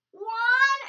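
loud rising count; countdown shout. Shown as a demonstration. Teacher counts down for the jump, loud count. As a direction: build to the launch.

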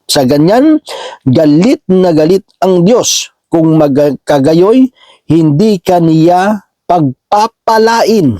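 slow, drawn-out key phrases; emphatic scripture reading. Acted. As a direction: read the warning out deliberately, stretching the weighty words. Reads verse aloud with emphasis.

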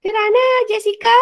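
prompting rise. Acted. Teacher prompting class.

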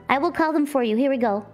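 normal talking voice

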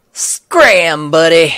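loud, punchy order; gruff dismissal. Acted. Cop chasing the reporter away, loud and forceful. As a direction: shout them off the scene.

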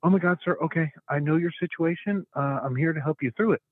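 a hint of an eager phone helper; eager helpful operator. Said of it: "She's like".

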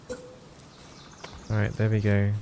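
hushed breathy all right; whispered. Real, not acted. Player finishing the chicken grave, whispering.

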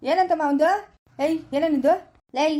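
loud angry challenge, fists up. Acted. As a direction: bark it at the neighbour like a picked fight. Angry quarrel, confronting neighbour. (ಜಗಳದ ಕೋಪದ ಕೂಗು)

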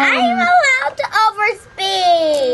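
slow, drawn-out playful protest; mock protest. Speeder arguing with officer over a ticket, drawn-out protest. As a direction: stretch it out in pretend defiance.

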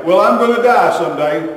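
lightly acted announcement to the family; hint of casual announcement. Someone telling family a hard fact, lightly acted announcement.

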